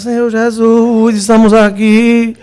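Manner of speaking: slow, dragging, deadpan prayer; a hint of someone praying half dead; lifeless mock prayer. Mocking gloomy people at prayer, slow and lifeless. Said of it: "Parece que já morreu".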